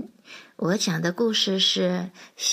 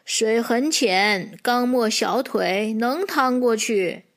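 lightly voiced slow old ox. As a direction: answer slowly, as an old ox would. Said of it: "老牛说". (略带老牛腔，慢悠悠地说)

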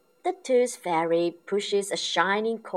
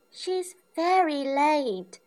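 Peppa complaining; 12 semitones higher, 4 dB louder, slower than usual. A narrator's reading. Peppa waiting impatiently.

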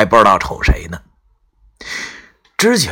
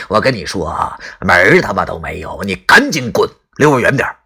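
scornful mockery with a cold laugh; sneering coldly. Grandpa mocks Qiao for claiming he came to fetch him, sneering. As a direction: brush him off with contempt. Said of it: "他冷笑着说道".

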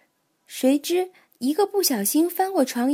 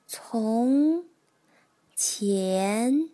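slow, word by word with pauses; reading aloud haltingly; much slower than usual. Acted. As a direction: sound out each word like a beginner. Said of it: "慢慢地一个字一个字地念".

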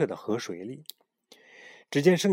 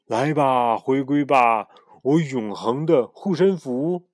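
solemn summoning; 3 semitones higher, 5 dB louder, slower than usual. Acted. Pharaoh summons amulet.

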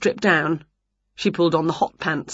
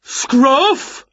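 raised, put-on giant's call; 7 semitones higher, 4 dB louder than usual. A narrator's reading. Giant neighbour Jerry calling his dog, calling out. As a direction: call the dog sharply from outside. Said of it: "called the voice of Jerry".

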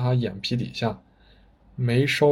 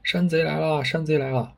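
raised voice crying out a warning; alarmed shout; 5 semitones higher than usual. A narrator's reading. Villager warning the whole village, raised alarmed call. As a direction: call out that the bandits are coming. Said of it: "不知谁大喊一声".

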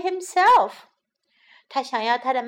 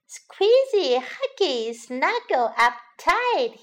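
happy; 4 semitones higher, 5 dB louder, slower than usual. Acted. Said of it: "he said happily".

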